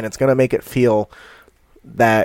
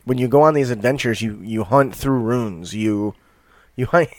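ordinary delivery

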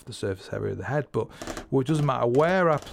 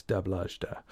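softer imitated drum lick; drum speak; 5 semitones lower, 7 dB quieter than usual. Shown as a demonstration. Drummer recalling a known vibe, soft drum speak. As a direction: sound out the lick quietly in syllables. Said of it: "Good bit of drum speak there".

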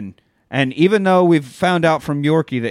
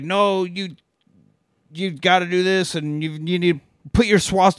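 higher, frantic Hitler voice; imaginary Hitler; 5 semitones higher than usual. Retold or imitated. Retelling the movie to cohosts, pleading Hitler voice. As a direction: push him like a desperate Hitler. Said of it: "he's like".

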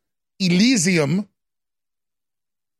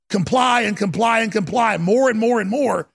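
shouting rant. Real, not acted. Ranting crescendo.

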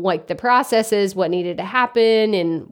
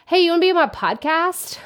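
higher, breezy, careless ask; mock lazy pitch; 8 semitones higher than usual. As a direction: toss off the lazy cold pitch. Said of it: "that just makes me laugh saying it like that".

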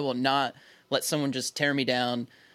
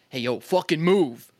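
mild mock yell, drawn out; retold brusque order. Stranger behind him ordering him to move, mild retold yell. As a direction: slowly order someone aside, half-hearted yell. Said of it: "I mean, yelled".

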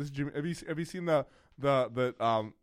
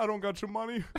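a bit higher mock voice; random voice; 9 semitones higher than usual. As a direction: throw out a silly voice. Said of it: "doing random voices".

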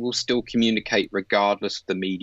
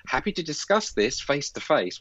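insincere reply; 6 semitones higher than usual. Retold or imitated. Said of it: "when you know that person isn't".

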